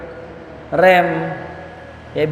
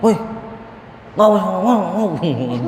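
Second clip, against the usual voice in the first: mock snapping; 2 semitones higher than usual. Elder scolding a youth at the mosque, mock snapping. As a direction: act out telling a youngster off. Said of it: "dibentak tuh ya".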